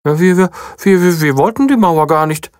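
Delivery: high, stumbling, nervous bunny; high little bunny stammering. A narrator's reading. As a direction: stutter out the confession.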